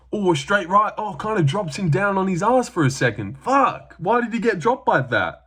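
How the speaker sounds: high, startled live reaction; excited shock. Pretend. Fan imagining watching the knockdown, high excited shock.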